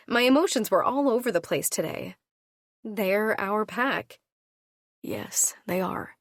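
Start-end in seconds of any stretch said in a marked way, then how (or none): 5.0-6.2 whispered. A narrator's reading. Whispered reply.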